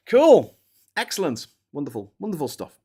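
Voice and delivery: high bright mock cheer fading down; fake-cheerful sign-off to grim news; sarcastic praise. Real, not acted. Streamer sarcastically praising a grim death, cheer fading.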